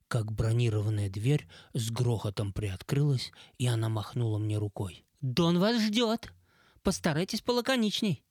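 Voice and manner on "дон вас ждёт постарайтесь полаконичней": excited female voice. Acted. Lenara calls out.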